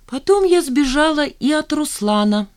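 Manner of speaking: high, haughty and provoking. A narrator's reading. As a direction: toss it off from above. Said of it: "надменно произнесла Жанна".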